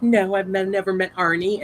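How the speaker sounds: high-pitched comedian voice; Gabriel Iglesias. Acted. Gabriel Iglesias answering a woman about Arnie, high put-on voice. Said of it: "And he's like".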